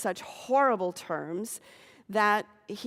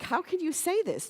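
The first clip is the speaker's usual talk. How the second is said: aghast father; 9 semitones higher than usual. Retold or imitated. Father aghast at son's announcement.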